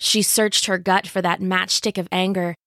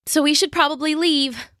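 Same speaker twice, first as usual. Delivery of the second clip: put-on young girl's voice; 7 semitones higher than usual. A narrator's reading. Jill voiced by narrator.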